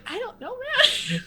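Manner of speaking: high, loud wail breaking into laughter; drawn-out, hammed-up helpless protest; mock desperate protest. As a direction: laughingly act out being out of your depth. Retells protesting a friend's reassurance.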